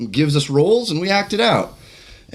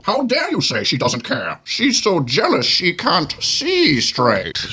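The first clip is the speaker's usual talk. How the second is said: Bane voice; 2 semitones higher, slower than usual. Acted. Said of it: "as a Bane".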